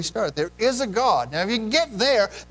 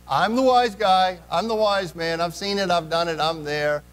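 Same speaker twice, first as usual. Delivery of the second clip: self-assured boast; 2 semitones higher, 4 dB louder than usual. Acted. Preacher mimicking someone who claims to be the wise man, boastful. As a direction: play the cocky know-it-all.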